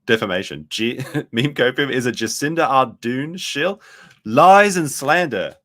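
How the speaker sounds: loud, high-pitched indignant outburst; mock outrage. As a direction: protest loudly as if slandered. Mock outrage at a defamatory post.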